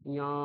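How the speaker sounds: ইয়া as nya, through the nose; nasal ny in ইয়া; nasalised nya. Shown as a demonstration. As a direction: say ইয়া with a palatal nasal onset. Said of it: "নাক দিয়ে একটু উচ্চারণ".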